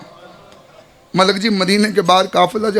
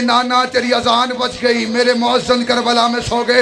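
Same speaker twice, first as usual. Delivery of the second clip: weeping lament; 2 semitones higher than usual. Acted. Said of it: "बीबी रो के कहती".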